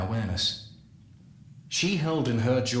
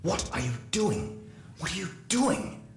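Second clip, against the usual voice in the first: mild inner scream; 8 semitones higher than usual. Retold or imitated. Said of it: "My own voice screamed in my head".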